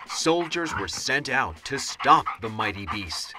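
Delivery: ordinary delivery, nothing marked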